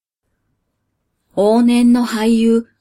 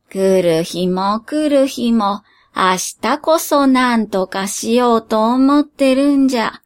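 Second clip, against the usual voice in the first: lightly voiced tired old genie; weary genie. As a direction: sigh it out, fed up.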